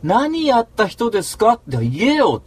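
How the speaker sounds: reliving a furious rant; retold angry yell. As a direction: shout the demand at him. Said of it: "つって怒ってるわけ".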